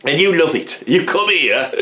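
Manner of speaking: a hammed-up cranky bloke moaning about walkers and cyclists; grumpy ranting old man. Ranting character sketch.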